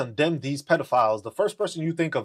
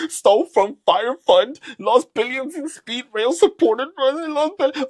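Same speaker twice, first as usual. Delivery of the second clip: mock reading; 8 semitones higher, 6 dB louder than usual. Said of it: "my man said".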